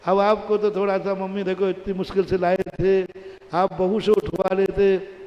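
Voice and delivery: son gently scolding mother; lightly voiced son, anger gone; son's calmed complaint. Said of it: "बेटा कहता है".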